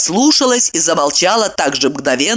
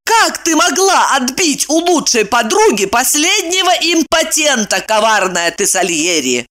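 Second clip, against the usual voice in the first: indignant; 7 semitones higher than usual. A narrator's reading. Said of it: "негодуя воскликнула Ева".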